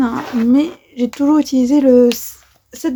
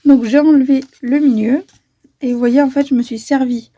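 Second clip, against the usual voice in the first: hiccuping mid-sentence; talking through small hiccups. Real, not acted. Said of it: "j'ai le hoquet".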